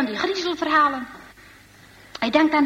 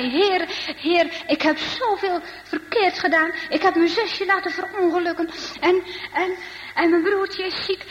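put-on higher, pleading boy's prayer; remorseful pleading, pitched up throughout; anxious prayer; 4 semitones higher than usual. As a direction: confess to God in mild, acted distress. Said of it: "dan in zijn grote angst".

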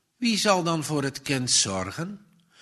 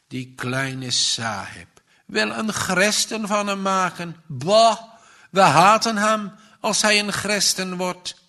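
scornful jeer, voice pitched up; mocking; 5 semitones higher, 4 dB louder than usual. A narrator's reading. Servants jeering at Bosi's interest in Christianity, mocking. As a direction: sneer it higher, louder on "Bah". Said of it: "die spottende opmerkingen".

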